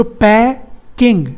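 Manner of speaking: पैकिंग split in two, slowly, as पै, then किंग; syllable by syllable. Shown as a demonstration. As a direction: break पैकिंग before the k sound. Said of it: "ए और ई के बीच में क आ गया".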